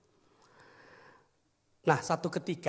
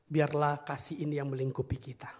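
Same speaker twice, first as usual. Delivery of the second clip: whispered prayer. Real, not acted. Preacher praying over congregation.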